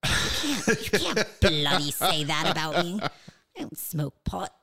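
high, indignant mock-British protest; horrible British accent. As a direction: put on a hammy British outrage. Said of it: "That was a horrible British accent".

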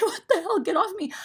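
very high, laughing get-off-me; laughing exasperation. Retold or imitated. Squished passenger to clingy kid, high and laughing. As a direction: laugh through a fed-up protest. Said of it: "I'm just like".

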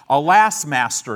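a loud mock cry of alarm; freaked-out servant. Servant, startled by the army, loudly cries alarm. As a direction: call out to his master in mock panic. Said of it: "He's a little freaked out".

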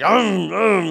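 loud mock-mad "um, um"; imitated angry baby grunts. Baby not given food, imitated angry grunts. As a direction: mimic a baby fuming for food. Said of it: "He's mad".

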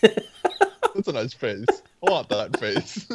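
slow, creepy Leatherface voice through laughter; mock Leatherface voice. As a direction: play a hungry face-collector, half laughing. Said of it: "I'm, like, Leatherface now".

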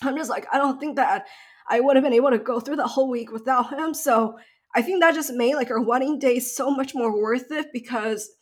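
real tears rising, voice lifted and straining; fighting back tears as she talks about her partner; getting emotional. Real, not acted. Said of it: "I'm getting emotional".

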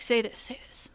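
hushed urgent aside; whispering. Retold or imitated. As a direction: whisper it under the breath. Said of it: "he whispers to the Bard player".

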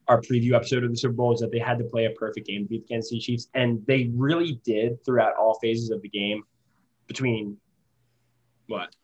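muffled, bad connection audio; underwater-sounding mic. Real, not acted. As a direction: voice through a muffled Skype mic. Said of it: "you sound like you're underwater".

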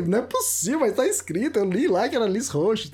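high-pitched mock protest; incredulous retold objection; retold disbelief. Retelling his protest to taxi driver.

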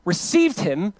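slow, deliberate reading of the verse; slow scripture reading. Shown as a demonstration. Preacher reading John to the church, slow and deliberate. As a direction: read every word slowly. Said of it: "verse twelve says this".

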